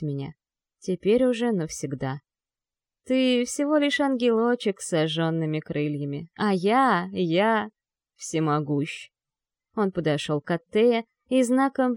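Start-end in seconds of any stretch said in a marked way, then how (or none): 3.0-9.1 boastful demon lord voice; dark lord. Acted. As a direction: gloat as an almighty dark lord.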